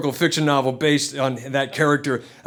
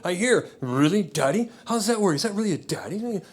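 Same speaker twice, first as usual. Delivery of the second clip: put-on skeptical older woman; 4 semitones higher, 4 dB quieter than usual. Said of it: "does a double take and just kinda goes".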